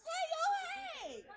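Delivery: big hollered hello; quaint Southern greeting. Acted. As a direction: call out to everyone like a folksy Southerner. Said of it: "like I'm from the South".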